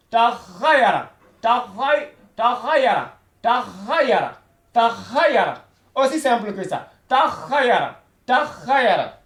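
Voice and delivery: "Takhayara" with a rasping "kh" in the throat; throaty kh sound. Shown as a demonstration. Teacher drilling students: "Takhayara" with a vibrating throat "kh". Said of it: "il faudrait qu'il y ait une vibration".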